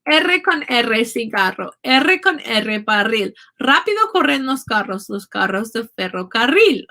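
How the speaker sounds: Spanish trilled Rs in "R con R" and "ferrocarril"; rolled R tongue twister. Shown as a demonstration. Teacher recites a Spanish tongue twister, rolled R in "carros" and "ferrocarril". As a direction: recite it rhythmically, rolling the double R in "carros", "barril", "ferrocarril". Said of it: "take as many rolled R's as it can".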